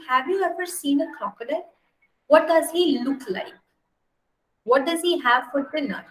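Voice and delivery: lightly voiced baby elephant, high and eager; curious baby elephant. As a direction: ask like a small curious child. Baby elephant questions the python.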